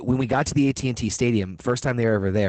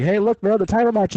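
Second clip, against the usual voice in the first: mock-excited call, much higher and louder; teasing buddy; 10 semitones higher, 4 dB louder than usual. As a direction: imitate a friend pointing up and teasing. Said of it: "He's like".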